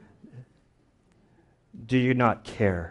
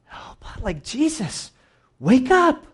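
retold scream; 13 semitones higher, 3 dB louder, slower than usual. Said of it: "they're screaming".

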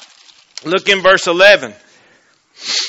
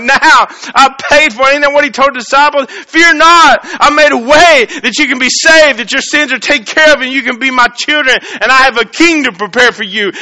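higher, louder, eager and joyful; excited Jesus; 7 semitones higher, 4 dB louder than usual. Acted. Jesus telling the disciples they are saved, excited and high. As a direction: burst out with glad news. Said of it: "Jesus gets so excited to be like".

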